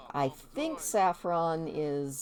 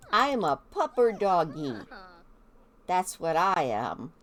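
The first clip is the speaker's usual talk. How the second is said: pretend puppy; 4 dB louder than usual. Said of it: "very boring pretend to be a pupper".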